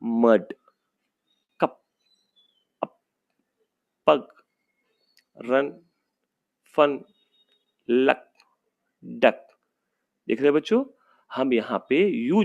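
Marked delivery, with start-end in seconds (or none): 0.0-9.5 slow careful reading, a touch louder; teacher models short i words; word list read-aloud. Shown as a demonstration. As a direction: read each word clearly for the class. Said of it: "कुछ शब्द यहाँ पे दिया है".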